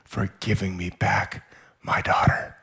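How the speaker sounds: hushed, half-whispered thanks; softly, as if overcome with tears; tearful gratitude. Acted. Father thanking the man who found his daughter, tearfully hushed. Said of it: "he cries and he goes".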